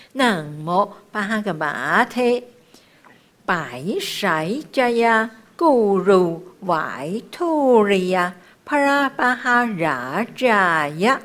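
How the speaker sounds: slow chant with long held vowels; measured, drawn-out chanting; mantra recitation. Shown as a demonstration. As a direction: recite each sacred name syllable by syllable.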